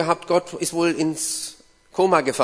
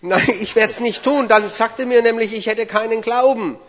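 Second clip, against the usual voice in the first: higher-pitched acted protest; protesting refusal; 6 semitones higher than usual. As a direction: refuse in a raised, complaining pitch. Interpreter acts Peter's refusal.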